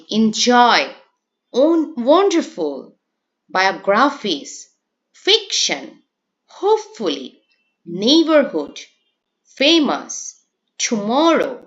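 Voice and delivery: each word alone, stressed syllable pushed harder: JOY in এনজয়, MO in টুমরো. Shown as a demonstration. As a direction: punch the stressed syllable, like WON in ওয়ান্ডারফুল, FIC in ফিকশন. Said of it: "একটু forcefully বা loudly". (এনজয়-এর "জয়", টুমরো-র "মো"-র মতো সিলেবলে জোর দিয়ে)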